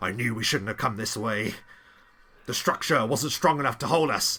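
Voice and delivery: rough, gruff character voice. Narrator voices an unseen speaker calling from another direction, in a gruff voice. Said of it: "A gruff voice".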